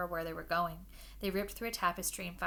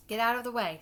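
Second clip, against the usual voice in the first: loud, higher sharp snap; snapped; 4 semitones higher, 9 dB louder than usual. Acted. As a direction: bark it at the pest. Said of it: "snapped Ron".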